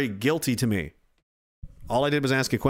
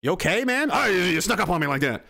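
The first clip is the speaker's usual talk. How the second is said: startled; 4 semitones higher than usual. Retold or imitated. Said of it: "I'm like".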